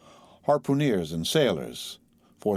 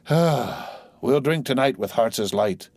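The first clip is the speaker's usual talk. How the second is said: usual speaking voice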